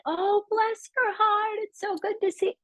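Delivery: put-on over-sweet Southern politeness, hamming up the accent; syrupy Southern accent. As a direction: gush it like a polite Southern lady, all sweetness. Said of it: "that's how they".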